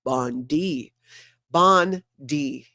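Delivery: "Bondi" as BON-DEE, each syllable set apart; memorizing pronunciation. Shown as a demonstration. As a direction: repeat "Bondi" deliberately, ending in ee, to memorize it. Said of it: "see if I can remember that".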